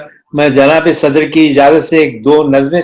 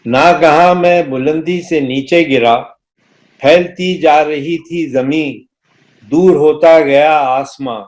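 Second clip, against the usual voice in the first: stately nazm recitation. Acted. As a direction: recite the poem with gravity.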